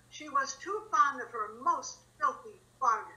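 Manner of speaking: tearful, breaking voice; grief-stricken, crying. Acted. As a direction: weep through the words. Emilia grieving her mistress.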